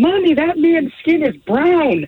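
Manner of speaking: play-acted very high, loud, blurted child's yell. Retelling a toddler son's outburst at a deli counter: imitating a child yelling. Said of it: "my son just points to him and yells".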